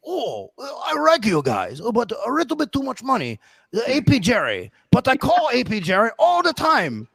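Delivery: high-pitched, singsong mock Asian accent; imitated Asian accent. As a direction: exaggerate a customer's Asian accent, pitch swooping up. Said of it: "And he keeps saying".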